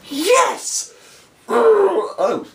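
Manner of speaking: high, sudden yelp of glee; little celebration. Retold or imitated. Retelling his private win at airport security, gleeful high yelp. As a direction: punch the air with a gleeful yes. Celebrating when another man is searched.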